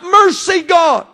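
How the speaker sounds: a retold plea, lifted but not full force; mild shouted plea. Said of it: "as I began to shout".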